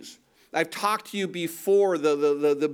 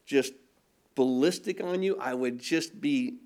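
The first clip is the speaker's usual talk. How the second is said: low, held-back inner grumble; restrained, mock seething; pent-up anger; 4 semitones lower than usual. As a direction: voice the angry heart under your breath. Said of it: "My heart is like".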